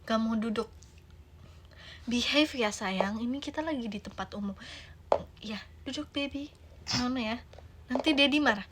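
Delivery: put-on soft, quiet coaxing of a restless toddler; gentle coaxing mother. Mother softly coaxing toddler to sit in public, quiet and gentle. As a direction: soothe the child into sitting.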